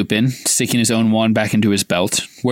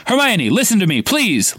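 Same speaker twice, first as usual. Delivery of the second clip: raised, pleading shout; Lupin shouting; 8 semitones higher than usual. A narrator's reading. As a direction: call out to calm her down. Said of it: "Lupin shouted".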